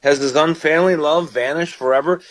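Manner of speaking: rising, anguished questions; questioning psalmist. Retold or imitated. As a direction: ask God if he has been abandoned. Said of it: "And he said".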